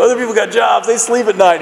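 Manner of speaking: high, loud mock scolding; imitated angry sponsor. Sponsor woken by late call, scolding.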